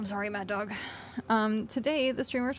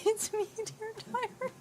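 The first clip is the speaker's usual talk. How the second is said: laughing repeat; 10 semitones higher than usual. Retold or imitated. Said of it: "Oh, that's cute".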